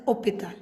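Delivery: hospital said "opital", no H at the front; French pronunciation, silent H. Shown as a demonstration. Teacher repeating the correct French form, hospital with a silent H. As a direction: start hospital right on the O, leaving the H mute. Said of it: "so it is pronounced as hospital".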